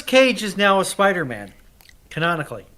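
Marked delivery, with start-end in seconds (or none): none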